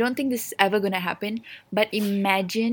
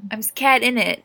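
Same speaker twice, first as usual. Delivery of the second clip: playful put-on British accent; joking British accent; 2 semitones higher than usual. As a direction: ham up a British "innit". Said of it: "What is with the accent?".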